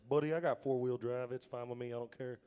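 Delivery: lightly voiced easygoing country buddy; light impression of a country singer friend. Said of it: "That's exactly how he sounds".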